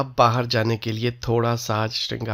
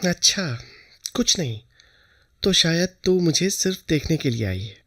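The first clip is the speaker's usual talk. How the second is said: tender, higher, doting voice; mother fondly teasing Lalita, tender; lovingly; 5 semitones higher than usual. A narrator's reading. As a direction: coax the girl with affection. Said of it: "बहुत प्यार से बोली".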